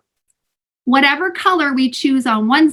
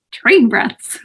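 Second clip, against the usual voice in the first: whispered aside with a laugh. Real, not acted. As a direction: breathe the words out. Joke whispered between laughs.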